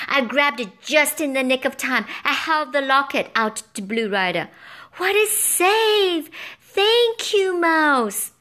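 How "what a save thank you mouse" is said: high, loud, slow delighted thanks; high, loud grateful knight. A narrator's reading. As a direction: beam with relief. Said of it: "the knight said gratefully".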